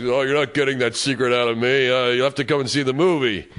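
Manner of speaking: lightly voiced impression of a star; David Hasselhoff. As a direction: tease with a light put-on star voice. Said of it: "David Hasselhoff goes".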